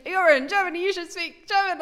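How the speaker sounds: angry police officer shouting; retold shouting. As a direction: yell it like the furious officer. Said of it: "He started shouting to me in German".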